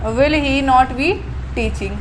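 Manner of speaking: very slow, word by word; slow dictation. Shown as a demonstration. Teacher dictating to students, very slow and drawn out. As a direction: spell it out slowly for the class.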